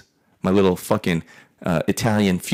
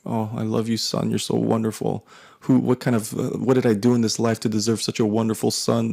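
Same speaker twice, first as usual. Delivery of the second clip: mom gushing; 3 semitones higher than usual. Retold or imitated. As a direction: lay on the sweet praise like a doting mom. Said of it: "She's like".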